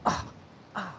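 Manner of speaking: short effort grunts. Real, not acted. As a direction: grunt climbing over rocks. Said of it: "Sorry for all the grunting".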